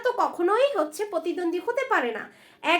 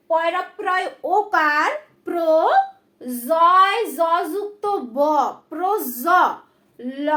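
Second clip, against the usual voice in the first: louder, slower spelling of each letter; emphatic spelling; 7 dB louder, slower than usual. Shown as a demonstration. Teacher stressing a hard spelling, emphatic. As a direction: spell it out loud and deliberate. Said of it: "লক্ষ্য করো".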